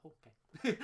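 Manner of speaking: a loud, rising "Oh, okay" of sudden realisation; loud, surprised "oh" rising at the end; mock surprise. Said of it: "You know the tone is different".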